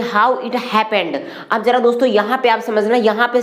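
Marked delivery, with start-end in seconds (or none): 0.0-1.2 very slow, word by word; drawn-out model sentence; slow teaching demo. Shown as a demonstration. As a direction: lay each word out for learners. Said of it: "इसको क्या बोलेंगे".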